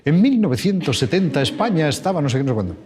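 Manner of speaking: a hint of the Cuéntame storyteller voice; Cuéntame narrator voice. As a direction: slip into the familiar narrator read, only just. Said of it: "siendo aquel que dice".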